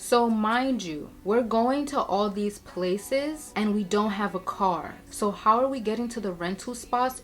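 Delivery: ordinary delivery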